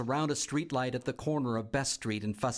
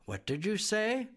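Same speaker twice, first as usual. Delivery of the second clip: stern teacher; 9 semitones higher than usual. A narrator's reading. Teacher confronts Bea.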